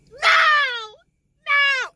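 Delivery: high, loud cries of no; desperate shouted refusal; shouted denial. Retold or imitated. Character's shocked protest in book recap.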